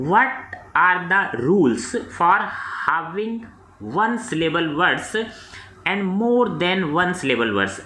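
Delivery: slow, deliberate reading of an exam question; dictation-style reading. Acted. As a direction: read the question out slowly for students to follow. Reads exam question slowly.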